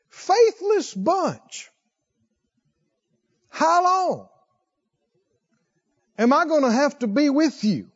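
high, very slow exasperated sigh of a voice; drawn out and weary, as if sighing at them; weary sighing Jesus. Retold or imitated. Jesus sighing at his faithless disciples, high and slow. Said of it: "you hear something akin to a sigh".

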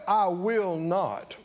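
slow, sassy I will not; smart-mouth refusal. Shown as a demonstration. Preacher voicing the sassy son to the congregation. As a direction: give it some smart-mouth attitude. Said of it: "That's defiance".

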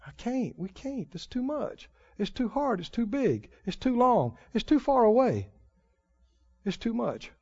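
soft, defeated, tormented voice; tormented whimper. Retold or imitated. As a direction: whimper the excuses as if trapped. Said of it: "It's tormented".

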